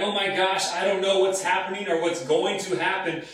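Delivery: half-acted fearful thrill; fearful excitement. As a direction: act out a touch of overwhelmed awe. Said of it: "Fear and excitement".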